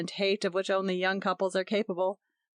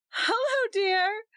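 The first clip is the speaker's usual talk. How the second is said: laughing; 14 semitones higher, slower than usual. A narrator's reading. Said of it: "Her voice was full of laughter".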